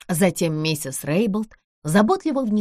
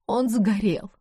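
бездумно повторяя; 4 semitones higher, slower than usual. Acted. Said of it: "бездумно повторяла".

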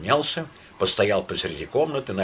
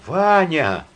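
high loud call across the room; high anxious call; 9 semitones higher, 8 dB louder than usual. Acted. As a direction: call for him, alarmed. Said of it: "позвала она".

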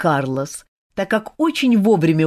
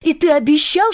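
accusing; 10 semitones higher, 4 dB louder than usual. A narrator's reading. Olga reproaches Kantor.

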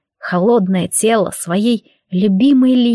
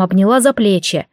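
usual speaking voice

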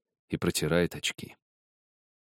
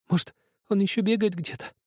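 put-on higher, childlike boy's voice; young boy Zakhar; 13 semitones higher than usual. A narrator's reading. Zakhar asks Helmut about his cat, in a higher boy's voice. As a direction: play the small boy, timid and hopeful.

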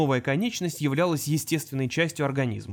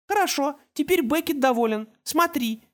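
put-on high child voice, pleased; happy toddler; 11 semitones higher than usual. Little boy shows his brother his grin, high voice. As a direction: show off like a happy small boy.

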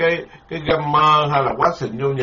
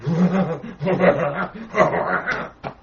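mock bitter laugh; 4 dB quieter than usual. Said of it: "Không phải tôi cười đâu nha".

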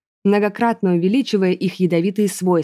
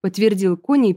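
plain reading voice

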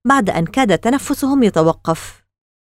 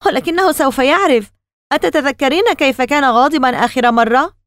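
higher-pitched agitated protest; acted cry; 6 semitones higher than usual. A narrator's reading. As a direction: cry out without full shouting. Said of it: "صرخ كيسي". (صرخة احتجاج ممثَّلة بنبرة أعلى)

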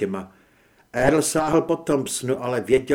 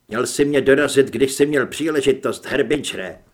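mock taunt; 6 dB louder than usual. Captive gunman taunts Earl.

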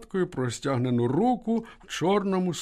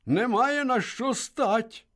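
slow, bitter smiling retort; wry smile; 9 semitones higher, much slower than usual. A narrator's reading. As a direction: answer with a crooked grin. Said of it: "усміхнувся Швець".

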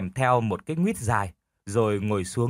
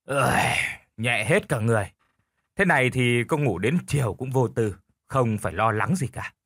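relieved sigh to himself. Acted. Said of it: "lão nói một mình".

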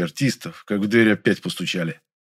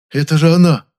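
louder, higher thrilled whisper-to-shout; delighted exclamation; 7 semitones higher, 8 dB louder than usual. A narrator's reading. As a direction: burst out in delight. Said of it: "с восторгом в голосе". (восторженный возглас)

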